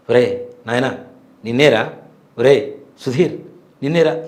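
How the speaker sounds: spaced-out calls, name drawn out slowly; అమ్మవారు calling out. Retold or imitated. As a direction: imitate the voice summoning from within, with pauses. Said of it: "ఆ శబ్దం వినపడుతుంది లోపల నుంచి". (అమ్మవారు లోపల నుంచి ఆగి ఆగి పిలుస్తున్నట్టు)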